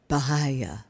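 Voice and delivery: Bahaya with a breath of air on the H; aspirated H. Shown as a demonstration. Teacher showing students the Sanskrit word, Bahaya with aspirated H. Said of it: "with an aspirated H".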